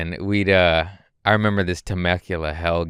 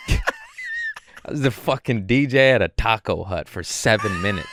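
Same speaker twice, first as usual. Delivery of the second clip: mocking shout; 4 semitones higher than usual. Mocking a newcomer's excuse.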